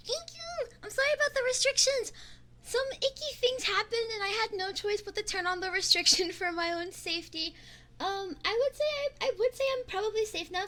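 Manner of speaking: high cheerful apology; bright excited. Real, not acted. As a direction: lift the voice, sunny and fast.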